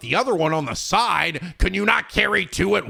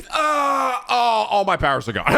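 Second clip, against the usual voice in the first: higher hammed-up crying wail; mock Samus wail; 6 semitones higher than usual. Samus lamenting her lost powers, hammed-up wail. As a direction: whimper like a melodramatic hero. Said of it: "she's like".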